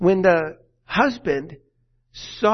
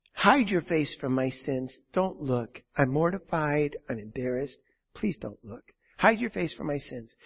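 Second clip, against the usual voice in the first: pleading, sinking much softer toward the end; humbled murmur growing much softer; ashamed plea fading to near silence; 4 semitones lower, 5 dB quieter than usual. Acted. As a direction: beg him not to look, voice dropping away. David's plea of shame, fading.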